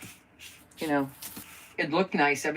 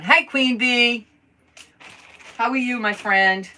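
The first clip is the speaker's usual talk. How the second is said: gushing greeting; 7 semitones higher, 6 dB louder than usual. Real, not acted. Greeting a viewer.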